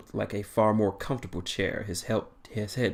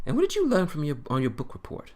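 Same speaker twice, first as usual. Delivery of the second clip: lightly jovial question in a raised pitch; jovial but cautious; 6 semitones higher, faster than usual. Acted. Doctor asks captain what he learned, jovial yet cautious. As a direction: start high, then ease down. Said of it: "though his tone was jovial".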